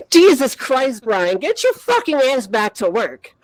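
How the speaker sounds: mock-frustrated outburst, easing off; frustrated telling-off. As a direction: imitate scolding a slacking coworker. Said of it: "I'm getting really frustrated".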